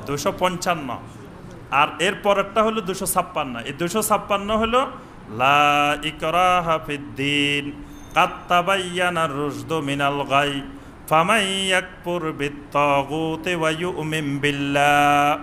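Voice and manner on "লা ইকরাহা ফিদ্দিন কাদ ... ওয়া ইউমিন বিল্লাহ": slow melodic Arabic tilawat; Quran recitation. Acted. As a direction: recite the verse in chanted tajweed.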